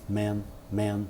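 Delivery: man, man said quiet and short, mouth barely open; small relaxed vowel in man. Shown as a demonstration. Teacher repeating the relaxed vowel in man. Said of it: "um som relaxado".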